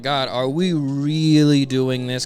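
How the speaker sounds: slow, weary complaint; exasperated groan. Acted. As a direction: drag it out, fed up. Villain exasperated at stalling.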